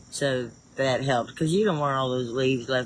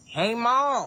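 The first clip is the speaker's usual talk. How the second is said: high, far-off call of "Hey, Ma"; imitating son calling; 8 semitones higher than usual. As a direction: call out to mom from across the house, pitched up. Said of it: "I can't do it the way he did".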